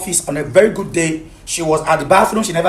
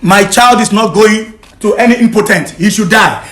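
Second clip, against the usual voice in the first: heated, emphatic protest; angry refusal; 3 semitones higher, 3 dB louder than usual. Real, not acted. Husband refusing to hand over his child, angry refusal. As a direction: refuse it in real anger.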